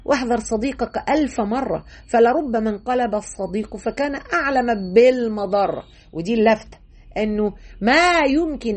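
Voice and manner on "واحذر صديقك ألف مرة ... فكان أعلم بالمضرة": quoting a saying. Retold or imitated. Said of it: "ابن الجوزي بيقول".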